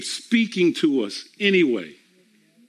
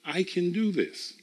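much softer, self-assured; quiet faith; 8 dB quieter than usual. Retold or imitated. Believer voicing faith to himself, quiet and sure. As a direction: murmur it to yourself with conviction. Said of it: "allow your faith to say".

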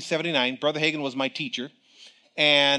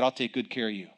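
gentle reassurance; 6 semitones lower, 5 dB quieter than usual. Retold or imitated. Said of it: "God said".

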